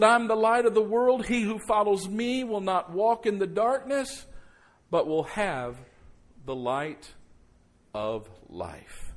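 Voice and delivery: booming then hushed scripture; preaching at full force. Acted. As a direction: proclaim it then let it fall to a hush. Repeats verse with full force.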